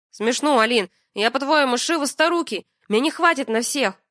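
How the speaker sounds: mock her demand; sarcastic retort. Миша раздражённо огрызается.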